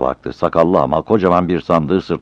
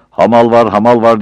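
loud hawker's cry, higher; calling out for work; 7 semitones higher, 8 dB louder than usual. A narrator's reading. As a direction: call out to the street for porter work. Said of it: "diye bağırmaya başladı". (yüksek sesle bağırarak)

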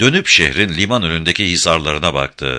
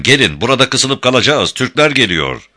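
urgent call; 6 semitones higher, 3 dB louder than usual. Acted. Urgent warning from the boat.

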